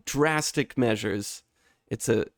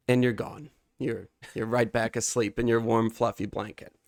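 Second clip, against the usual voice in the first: dramatic imagery. Acted. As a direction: paint the scene, draw the listener in. Dramatic guided imagery monologue.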